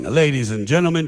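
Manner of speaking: mock the circus announcer, booming; booming ringmaster. Comedian mocking a ringmaster's big-top opening, booming. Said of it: "with a booming voice going".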